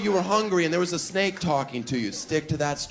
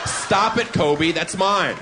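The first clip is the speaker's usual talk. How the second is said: squealing giggle; 4 semitones higher, 4 dB louder, slower than usual. Pretend. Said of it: "I'll be like".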